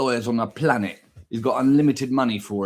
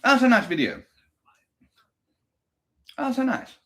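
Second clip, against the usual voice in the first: mock delight; 9 semitones higher than usual. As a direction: gush like it's the best day ever. Hammed-up sign-off.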